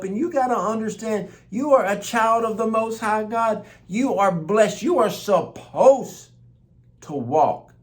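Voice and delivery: high, loud preacher's proclamation; declaring blessing at full force; full-force preaching. Acted. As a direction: preach it over them with fire.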